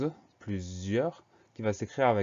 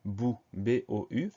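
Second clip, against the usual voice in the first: syllable spelled out; slower than usual. Shown as a demonstration. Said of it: "Première syllabe".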